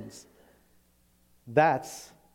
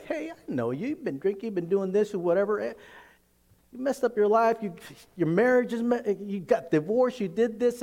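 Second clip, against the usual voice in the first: higher, needling taunt; mocking accuser; 5 semitones higher than usual. The enemy mocking a listener about past failures, higher sneering taunt. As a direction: rub every failure in their face. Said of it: "the enemy will point out everything".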